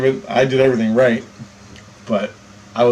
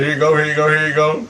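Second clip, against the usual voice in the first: rattled-off handout, mimicking the cop; imitated hurried cop; 3 semitones higher, faster than usual. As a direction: hurry through it like a busy officer. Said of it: "He wrote everything down real fast".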